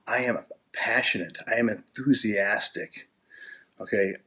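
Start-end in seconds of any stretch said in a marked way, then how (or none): 0.1-3.1 affirmation voice. Shown as a demonstration. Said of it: "start to say things like this".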